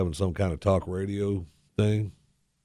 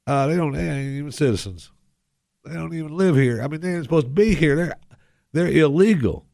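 lightly put-on country pundit, getting higher and more worked up; folksy good-old-boy commentator; 5 semitones higher, 4 dB louder than usual. Host warning listeners about gang members, in a folksy put-on voice. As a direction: play a homespun radio ranter, building in pitch.

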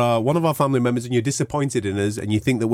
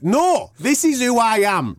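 slow and drawn out, each word weighted; planting his feet with every word; slow, defiant; 10 semitones higher, slower than usual. Real, not acted. Defiant message to mum.

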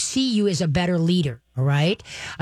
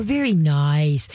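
slow praise; 3 semitones lower, much slower than usual. Shown as a demonstration.

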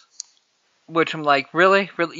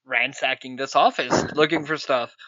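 lightly lowered suave Bond; low Bond voice; 4 semitones lower than usual. Retold or imitated. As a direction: drop low and cool for Bond.

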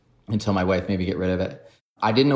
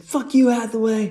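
high, louder imitation of a rude boss; mock angry boss; 4 dB louder than usual. Boss cursing at the new guy, high mock snarl. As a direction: bark it like a fed-up boss, lightly hammed.

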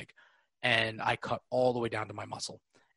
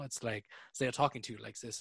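calm German accent. Shown as a demonstration. Showing co-host how Germans talk to you, calm German accent. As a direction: lull them gently in a German accent. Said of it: "somebody who's German is calm".

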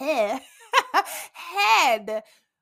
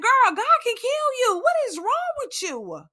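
self-scolding; 10 semitones higher, 4 dB louder than usual. Retold or imitated. Scolding herself in self-talk.

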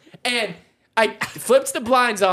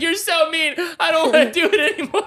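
higher, laughing fake sob; mock crying whine; 6 semitones higher than usual. Husband mimics wife's teary workout complaint. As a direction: whimper it, half laughing. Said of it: "And she's like".

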